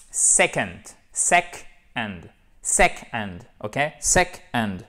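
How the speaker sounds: SECOND broken as "SEC - und", first part punched; deliberate, falling "SEC-und"; split syllables. Shown as a demonstration. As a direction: teach "second" in two distinct parts, stress first. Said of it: "faut bien faire la différence".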